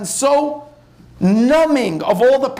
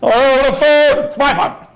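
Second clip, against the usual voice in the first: louder, slow mock panic; 4 semitones higher, 4 dB louder, slower than usual. Teen seeing mother grab their phone, mock panic. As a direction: gasp it out like you've been caught. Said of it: "but you go there".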